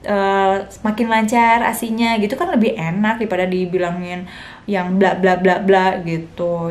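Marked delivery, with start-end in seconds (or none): 0.0-2.2 supportive. Shown as a demonstration. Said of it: "Disupport aja".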